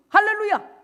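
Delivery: a preacher's soaring hallelujah; high hallelujah shout. Real, not acted. Preacher cries out to congregation.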